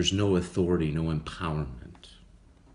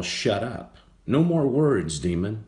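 firm, rising to louder and higher; stern command; 4 semitones higher, 4 dB louder than usual. Acted. Jesus silencing the demon, sternly. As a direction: shut it down with authority.

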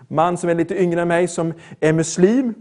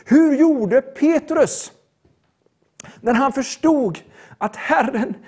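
emphatic sermon appeal in measured phrases; preaching; 6 semitones higher than usual. Acted. Preacher urging those who failed to serve God, preaching. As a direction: press each point on the listeners.

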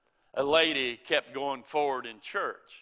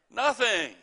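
emphatic nothing; 8 semitones higher, 5 dB louder than usual. Real, not acted. Preacher answers his own question.

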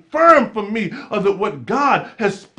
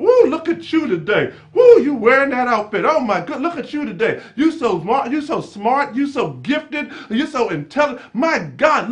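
excited praise; 2 semitones higher than usual. Acted. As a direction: hype her up like a proud best friend. Preacher voices Elizabeth praising Mary.

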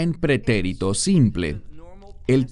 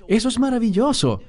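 much higher and quick, a cheerful imitation of a believer; mock enthusiastic praise; 11 semitones higher, faster than usual. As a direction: play the believer gushing over the news. Believer encouraging a new reader. (creyente animando con entusiasmo imitado, agudo y rápido)

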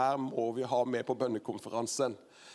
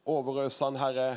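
prayer. Real, not acted. Host leads a prayer.

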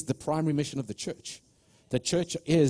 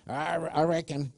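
southern accent; 5 semitones higher than usual. Shown as a demonstration. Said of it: "try and do it with a southern accent".

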